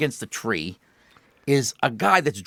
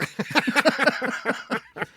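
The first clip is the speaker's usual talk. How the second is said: cackling laugh; 11 semitones higher than usual. Real, not acted. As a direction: burst out cackling at the punchline. Laughs at own punchline.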